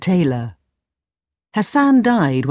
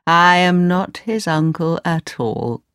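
slow, gloating aside; sly old wizard. Acted. Wizard admits his lie to himself, sly gloating. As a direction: confide the secret slowly. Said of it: "really a wizard".

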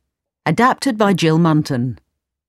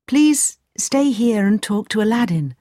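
lightly voiced mother, pitched higher; hospitable mother; 5 semitones higher than usual. Mother leaves the guest with Aladdin, hospitable. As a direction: ask politely in a lifted voice.

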